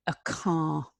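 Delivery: a soft whisper of the word "A car", no voice at all. Shown as a demonstration. Teacher whispers the new word to beginners.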